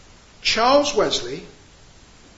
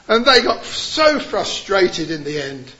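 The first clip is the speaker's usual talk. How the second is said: ordinary talk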